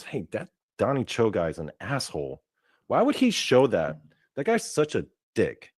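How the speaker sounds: imagined viewer's complaint, pitch lifting as it goes; mock indignant complaint. Viewers complaining to themselves about the host, mock indignation. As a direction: imitate an offended viewer, mildly.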